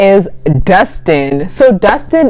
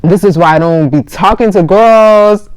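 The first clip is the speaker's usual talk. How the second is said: mock crying; 3 semitones higher than usual. Guy panicking over girl who passed out, mock crying. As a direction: imitate him crying, dragging out each phrase. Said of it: "So he starts crying".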